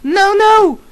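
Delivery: Draco pleading. A narrator's reading. Draco begs the narrator not to leave, pleading high. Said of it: "Draco pleaded".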